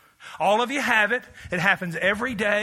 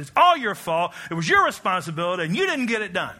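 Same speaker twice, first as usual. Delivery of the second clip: imitating a sharp accusing outburst at his wife; mock blaming snap; 4 dB louder than usual. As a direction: bark the blame at her, half-mocking. Snapping at his wife Paula.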